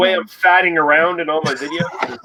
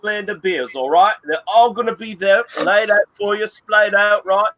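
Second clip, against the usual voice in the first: hammed-up pub-guide pitch, mostly his own voice; playing Red Beard selling Lee on the local pub, lightly put on; Red Beard impression; 3 semitones higher than usual. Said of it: "I was doing a Red Beard impression there".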